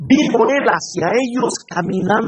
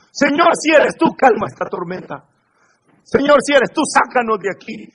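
fearful pleading; 5 semitones higher, faster than usual. Shown as a demonstration. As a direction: plead anxiously to be rescued. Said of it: "Pedro no le dijo".

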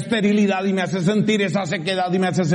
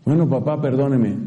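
son apologising; 6 semitones lower than usual. Retold or imitated. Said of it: "el hijo dice".

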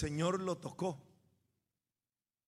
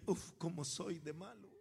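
rueful admission; 6 dB quieter than usual. Retold or imitated. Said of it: "Yo le dije".

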